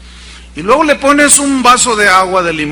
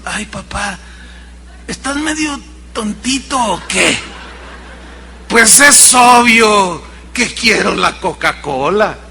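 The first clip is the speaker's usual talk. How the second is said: put-on sassy kid. Cheeky child answering the father.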